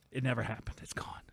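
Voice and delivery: usual speaking voice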